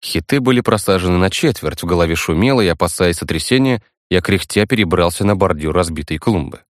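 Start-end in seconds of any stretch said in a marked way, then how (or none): none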